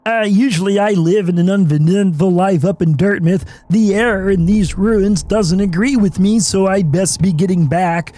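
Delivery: lightly voiced friendly nerd; nerdy game character. Streamer reading a game character's lines aloud. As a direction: read the traveller's lines kindly.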